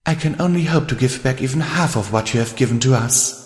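poised, emphatic character voice; confident. Acted. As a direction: assure a friend with heartfelt conviction. Rarity continues praising her friend.

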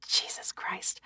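exasperated whispered curse; whispered exasperation. Acted. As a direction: sigh the curse out unvoiced.

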